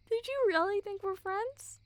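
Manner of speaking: sneering high question; mocking disbelief. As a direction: drag it out to belittle them. Bully mocks the victim.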